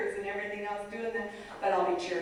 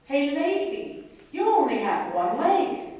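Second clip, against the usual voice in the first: put-on much higher, slow, louder child voice; blunt four-year-old; 7 semitones higher, 8 dB louder, slower than usual. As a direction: say it like a frank little boy. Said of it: "finally he goes".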